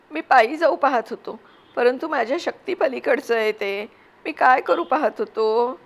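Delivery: put-on a remorseful boy coaxing his mother; pleading young son.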